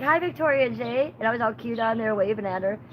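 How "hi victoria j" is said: cutesy greeting. Retold or imitated. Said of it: "I was like".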